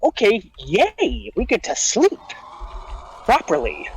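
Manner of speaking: high, slow, gleeful cheer; stretched-out delighted yay; excited. Retold or imitated. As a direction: squeal it like a kid let off school. Soldiers thrilled at getting nap.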